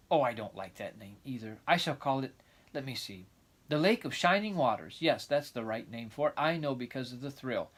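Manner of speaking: put-on lively, eager young girl; excited girl voice. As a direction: chatter on like a dreamy child. Anne's eager chatter.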